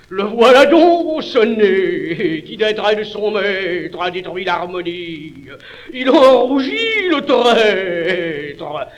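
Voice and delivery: loud, hammy tragic lament; mock sobbing. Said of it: "parodiant Pyrame en un sanglot".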